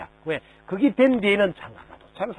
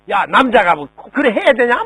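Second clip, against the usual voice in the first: picking a fight; 4 semitones higher, 5 dB louder than usual. Retold or imitated. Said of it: "막 이렇게 해가지고 기분이 나빠가지고 시비를 걸고".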